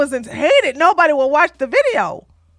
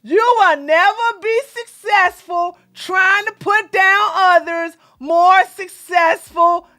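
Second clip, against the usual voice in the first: corrected mock reading; 3 semitones higher, slower than usual. Shown as a demonstration. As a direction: read it with pompous emphasis. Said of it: "I'm gonna help his words".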